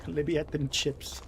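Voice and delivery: slow mock British robber; lightly voiced British thug; British accent. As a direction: drawl it like a cheeky Brit. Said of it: "Something stupid like that".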